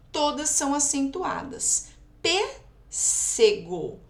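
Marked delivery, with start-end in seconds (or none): 2.2-4.0 "Pêssego" slowed right down, PÊS held apart; stress on PÊS. Shown as a demonstration. Teacher showing pupils an antepenultimate stress, drawn-out PÊS in "Pêssego". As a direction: break off and stretch PÊS in "Pêssego". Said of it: "proparoxítona é a antepenúltima".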